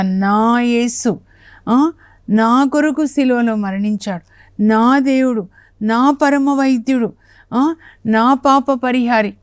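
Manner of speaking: slow, tender praise, words stretched; heartfelt devotion. Shown as a demonstration. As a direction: say it as a personal confession of love. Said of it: "మనం కూడా అలా".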